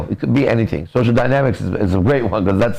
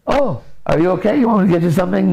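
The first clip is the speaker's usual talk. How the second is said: high-pitched, over-solicitous fussing; fawning concern; 7 semitones higher, faster than usual. Acted. Smitten man fusses over unwell woman, fawning. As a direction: play an eager-to-please suitor.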